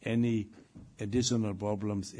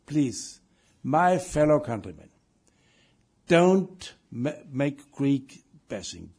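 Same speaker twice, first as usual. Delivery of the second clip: mild; 2 semitones higher, 8 dB louder, slower than usual. Retold or imitated. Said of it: "I have always said in any speech".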